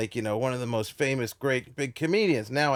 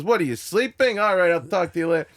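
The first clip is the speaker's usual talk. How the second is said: Andrew Dice Clay; 4 semitones higher, 3 dB louder than usual. Retold or imitated. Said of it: "He goes".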